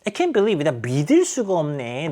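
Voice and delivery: mild mock disbelief; a hint of a judging friend. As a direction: scoff at her friend. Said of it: "판단 내리듯이".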